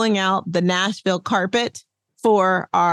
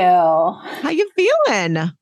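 mock Nashville drawl; much slower than usual. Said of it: "You, Nashville girl".

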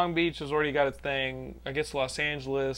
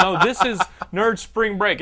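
laughing emphasis; 3 semitones higher, 6 dB louder, slower than usual. Real, not acted.

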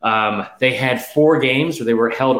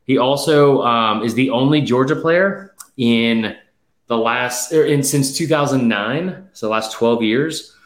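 breathless, slowed by gasps; out of breath; slower than usual. Real, not acted. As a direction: talk while catching your breath. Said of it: "I don't know why I'm out of breath".

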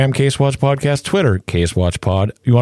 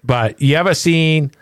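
ordinary talk, nothing marked

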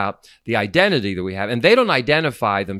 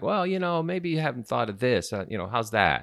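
gentle correction; 7 dB quieter than usual. Retold or imitated. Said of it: "It sounds like".

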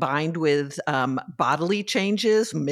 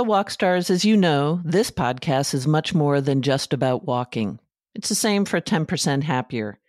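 friendly scripted host endorsement; measured, enunciated promo delivery; podcast ad read. Real, not acted. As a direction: read the sponsor copy to your listeners. Reads a podcast sponsor ad.

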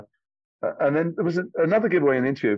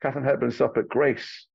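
Cary Grant impression. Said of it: "He says".

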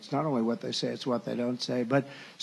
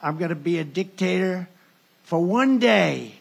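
retold emphatic reply; 2 semitones higher, 6 dB louder than usual. Speaker retelling his answer to Sean, rising to a shout. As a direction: stress one day, then shout the rest. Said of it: "I said".

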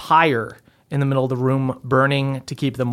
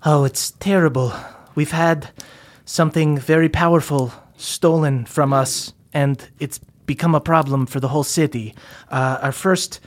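lightly voiced teen dwarf. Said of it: "stands in front and goes".

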